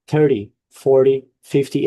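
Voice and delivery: "thirty, forty, fifty", each strong at the start and weak at the end; first-syllable stress. Shown as a demonstration. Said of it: "the stress is in the first syllable".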